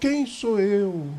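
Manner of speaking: soft, limp whine. Mimicking a man who declines when invited along, imitating whiny, limp voice. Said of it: "com aquela voz lamuriosa, com aquela voz mole".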